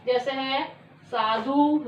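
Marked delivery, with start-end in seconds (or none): 1.1-1.8 साधु with a held oo at the end; teacher showing that साधु ends in oo; final उ sound. Shown as a demonstration. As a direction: draw out the closing oo of साधु. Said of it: "last में इसकी आवाज आई उ की".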